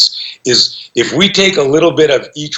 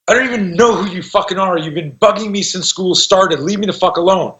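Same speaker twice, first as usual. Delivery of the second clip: higher-pitched retold confrontation; acted angry outburst; 3 semitones higher than usual. Student telling off his bully, mock angry. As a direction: act out a fed-up kid standing up to someone, without raising volume.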